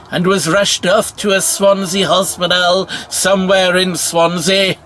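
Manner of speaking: measured comic poem recital; mock verse recitation. Comedian recites a supposed Dylan Thomas verse, mock-poetic. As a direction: declaim it like a silly limerick.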